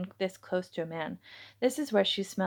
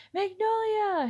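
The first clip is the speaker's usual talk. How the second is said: calling out; 12 semitones higher, slower than usual. Acted. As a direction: shout her name after her as she leaves. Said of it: "he called out to her".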